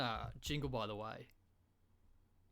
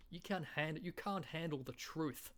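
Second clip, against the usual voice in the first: higher-pitched, stretched Aussie take; Australian accent; 4 semitones higher than usual. Acted. Comedian reworking the film line, higher broad Australian. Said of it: "in an Australian accent".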